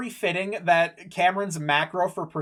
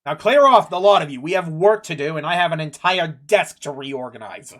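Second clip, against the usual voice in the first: lightly voiced officer dismissing a crowd; a hint of a busy, impatient captain; brusque guard captain; 6 dB louder than usual. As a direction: send them packing, starting loud. Game master plays guard captain.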